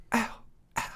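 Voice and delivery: soft breathy "ow" of mock pain; imitated wincing. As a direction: demonstrate a small flinching wince, barely voiced. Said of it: "just wincing".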